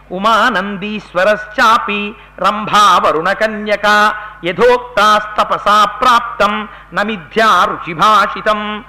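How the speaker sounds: slow measured chanting of a shloka; Sanskrit verse recital. Acted. Preacher recites a Sanskrit verse to the audience, slow and chanted.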